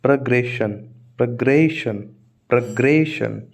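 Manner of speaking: प्रोग्रेशन opening on a short "pruh", not "pro"; reduced first vowel. Shown as a demonstration. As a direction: say प्रोग्रेशन as pruh-GRAY-shun. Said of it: "प्रो नहीं, प्र". (प्रोग्रेशन में "प्रो" नहीं, छोटा "प्र")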